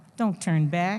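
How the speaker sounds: ordinary delivery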